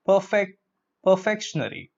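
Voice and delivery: "perfectionary" built on the word perfect; mispronunciation. Shown as a demonstration. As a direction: say "perfectionary" as per-FEK-shun-ary. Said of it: "That's incorrect pronunciation".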